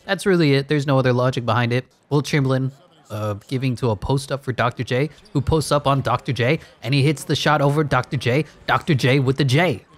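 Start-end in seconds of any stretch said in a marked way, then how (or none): 2.1-9.9 lively basketball commentary; play-by-play. Pretend. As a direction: call the action as it unfolds. Calls the simulated game live.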